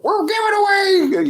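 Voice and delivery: high, hammed-up salesman squeal; high cartoon sales pitch; mock dealer.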